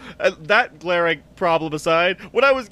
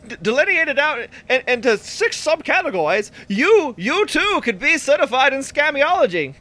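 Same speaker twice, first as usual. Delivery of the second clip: put-on higher, old-timey pitchman patter; fast-talking old-timey voice; 5 semitones higher than usual. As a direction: sell it like a carnival huckster. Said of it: "fast-talking, uh, old-timey voice".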